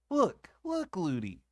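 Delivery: put-on high excited little girl; eager child. A narrator's reading. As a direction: point it out to nurse eagerly. Child pointing while running.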